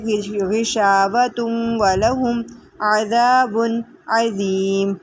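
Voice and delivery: slow, drawn-out recitation with held vowels; Quranic recitation. Shown as a demonstration. Teacher reciting the verse for the class, slow and melodic. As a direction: recite like tilawat, unhurried.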